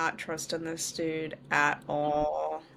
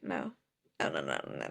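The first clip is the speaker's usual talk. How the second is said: much lower, softer disbelieving no's; stunned denial; 10 dB quieter, faster than usual. Retold or imitated. Emma realizing Kieran is the killer, hushed stunned denial. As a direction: let the no's sink in quiet horror. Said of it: "she's like".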